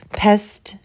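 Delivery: a short scornful jab. Acted. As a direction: spit out the insult. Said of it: "said Beezus".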